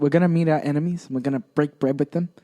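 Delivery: mobster. Pretend. Mobster character plotting.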